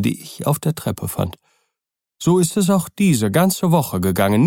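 high, swinging, insistent pitch; agitated servant Poole. Acted. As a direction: plead your case with rising agitation. (aufgebrachter, eindringlicher Diener)

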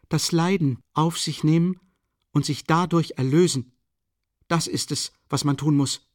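high, loud conviction; fervent exhortation. A narrator's reading. Sonja urging him to accept suffering, fervent exhortation. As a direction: press it on him, pitched high.

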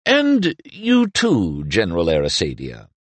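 palpable afterthought. Acted. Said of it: "as a palpable afterthought".

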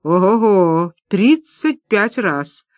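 drawn-out, savoring тридцать пять раз; slow gleeful wonder at the payout; Маша thrilled at the odds, slow and delighted. Acted. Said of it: "обрадовалась предводительница".

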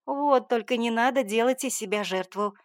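mother's indignant retort. Acted. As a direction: bristle with outrage at her daughter. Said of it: "возмутилась она".

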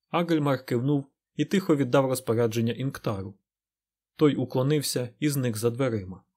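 usual speaking voice

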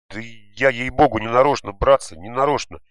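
high, loud frightened begging; boy caught out, pleading loudly and high. A narrator's reading. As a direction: beg the boys to believe you. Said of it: "взмолился тот".

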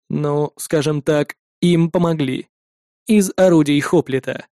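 low, very slow, detached synthetic voice; a machine weighing whether to save him; cold android voice. Acted. Android answers wryly.

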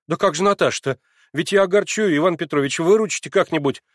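высоко и громче, сбивчиво; умоляй о совете; взволнованный Алёша. A narrator's reading. (Алёша в смятении просит Ивана Петровича)

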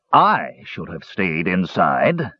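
slow mock-bitter repetition; bitter echo. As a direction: throw his words back, seething. Flint echoes bitterly.

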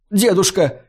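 high squealed cry; shrieked. A narrator's reading. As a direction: shriek her grandfather's name. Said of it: "взвизгнула Шелли".

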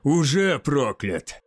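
drawn-out, mildly amused retort; laughing retort. A narrator's reading. Sorcerer easily parrying the youth's blows, amused retort. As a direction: toss it back slowly, amused. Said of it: "рассмеялся Кейн".

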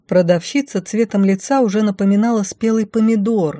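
plain reading voice

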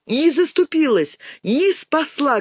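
put-on girl shouting angrily at the icon; angry shout. A narrator's reading. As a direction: hurl the blame at the icon. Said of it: "гневно кричала мышка".

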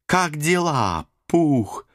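high, bouncy cartoon tiger; excited Tigger voice. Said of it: "Восторженным голоском прокричала Сабрина". (восторженный голосок Тигры)

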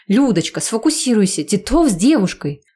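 high, insistent excited call. Acted. Friend urging Lyudochka to look at Titov, excited call. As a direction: grab her attention, amazed.

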